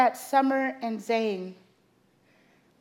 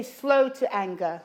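leading a repeat; 3 dB louder than usual. Shown as a demonstration. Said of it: "Everybody say".

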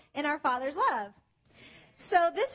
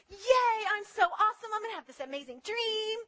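mock bragging; 4 semitones higher than usual. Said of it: "And he's like".

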